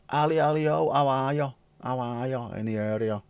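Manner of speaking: high, bright-up welcome to a viewer; a lifted cheery hello; sing-song greeting. Real, not acted. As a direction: call out cheerily to Ali.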